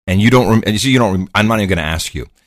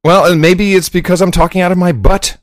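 thin, bass-less sound like a bad stream; tinny voice; 8 semitones higher than usual. Real, not acted. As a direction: speak through a thin tinny line. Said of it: "They say you sound tinny on the stream".

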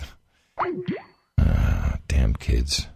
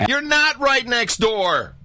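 high, slow, incredulous; scoffing; 10 semitones higher, slower than usual. Real, not acted. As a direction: scoff at the claim. Scoffing rebuttal.

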